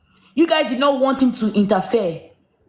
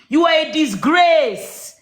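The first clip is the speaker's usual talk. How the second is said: slow angry outburst; 4 semitones higher, slower than usual. Real, not acted. Repeating to Mama she is a disgrace, raised and furious. Repeated insult, second take harder.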